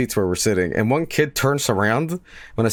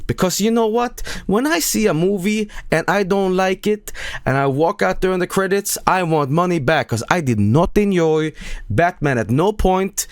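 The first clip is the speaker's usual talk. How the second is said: higher, hammed-up broken-English troll; mock troll rant; 9 semitones higher than usual. Mocking a troll who wants his money back, hammed-up. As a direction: ham up the dumb reviewer's complaint.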